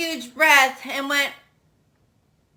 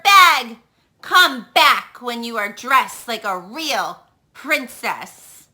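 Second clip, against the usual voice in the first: a lightly voiced snooty prince, louder; 4 semitones higher, 5 dB louder than usual. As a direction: scold her with disdain. Prince Ronald voiced in story.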